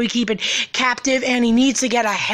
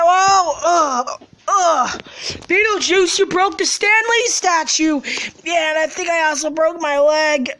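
hurt crying; 3 semitones higher than usual. Acted. Fell and broke his leg.

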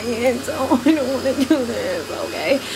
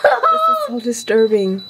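laughing disgust. Real, not acted.

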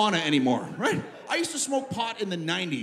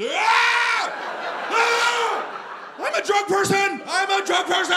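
high, loud hammed-up terror; panicked scream; 12 semitones higher, 6 dB louder, slower than usual. Traveler finding the gummy bear in his bag, mock panicked scream. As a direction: scream it at the top of your voice. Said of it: "and I screamed".

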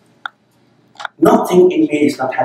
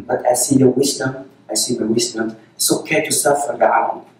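tender reassurance. Acted. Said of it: "No, say this".

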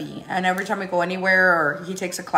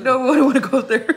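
put-on whiny kid; 5 semitones higher, 6 dB louder than usual. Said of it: "He's like".

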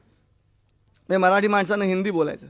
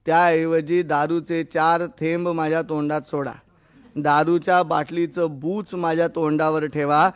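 slow, measured theatrical recitation; Taliram's final soliloquy; slower than usual. Acted. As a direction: deliver each last wish slowly, as a drunkard's soliloquy. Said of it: "तो तळीराम म्हणतो". (संथ लयीत नाट्यमय स्वगत)

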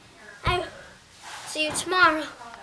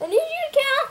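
strained, higher and louder; doing push ups; 9 semitones higher, 6 dB louder than usual. Real, not acted. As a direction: push the words out through the effort.

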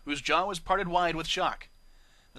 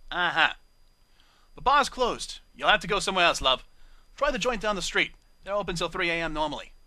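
dismissive British barmaid; 3 semitones higher, 6 dB louder than usual. Acted. Bar mare dismissing Octavia.

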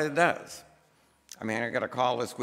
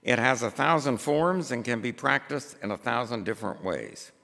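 measured, emphatic pulpit reading; formal read-aloud. Acted. Preacher reads a book passage to the congregation, measured formal reading. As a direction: read it out deliberately, phrase by phrase.

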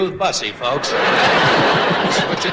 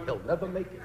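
muttered doubt; 10 dB quieter than usual. Retold or imitated. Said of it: "Jewish promoter's going".

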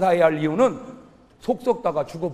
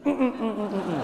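faint moaning; 4 dB quieter than usual. Acted. Woman in the coffin moaning faintly, soft groans. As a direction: moan weakly as if waking. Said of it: "신음소리".

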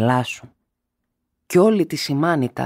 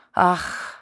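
anguished sigh of collapse; 5 semitones higher than usual. A narrator's reading. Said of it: "έκαμε η μάνα και σοριάστηκε".

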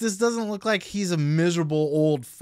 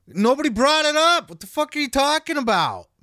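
higher, louder hammed-up angry yell; mock Flair outburst; 10 semitones higher, 6 dB louder than usual. Flair snapping at Conrad in a hammed-up angry yell. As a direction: blow up like a bitter old wrestler. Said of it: "He's like".

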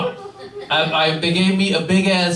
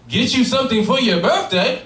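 higher, lightly voiced mom on the phone; mocking mother; 6 semitones higher than usual. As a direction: tease like a mother with a cruel joke. Mocking mother's phone call retold.

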